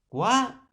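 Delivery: "cuánime" with CUA loud and high, then a gap; stress on CUA. Shown as a demonstration. Teacher showing the tonic syllable, CUA stressed hard. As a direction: punch the first syllable of "cuánime", separate the rest. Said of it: "profesor, sería tónica porque lleva la mayor fuerza de voz".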